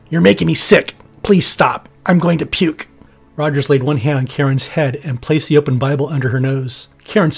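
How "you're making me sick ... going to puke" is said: female demon voice. Acted. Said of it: "female demon".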